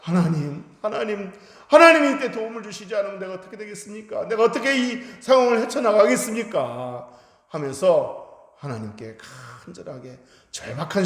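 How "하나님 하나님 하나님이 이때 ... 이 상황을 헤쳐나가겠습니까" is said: high, loud, fast urgent plea to God; desperate prayer. Shown as a demonstration. Preacher showing the congregation how to cry out in crisis, loud and fast. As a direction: pray as if everything depends on it. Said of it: "대화하듯이 하면 안 되고".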